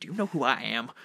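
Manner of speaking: lightly voiced vain Clav; muttered practice line as Clav; Clav's voice. Player rehearsing Clav with the microphone muted, lightly voiced. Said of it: "I just sit there like".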